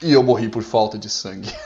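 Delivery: breaking out of the act into loud laughter; laughing. Real, not acted. Gamer amused by his own soldier's death, laughing. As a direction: end the death line in a real laugh.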